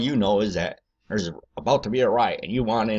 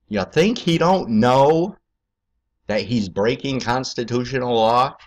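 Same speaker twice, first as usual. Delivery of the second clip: higher, louder and slow; heated challenge; 4 semitones higher, 5 dB louder than usual. Real, not acted. Challenging viewers about Obama, loud slow outrage. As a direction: push the question hard and up.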